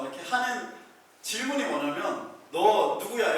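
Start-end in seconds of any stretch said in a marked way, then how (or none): 2.5-3.3 exorcist demanding. Retold or imitated. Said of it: "이렇게 물어봐요".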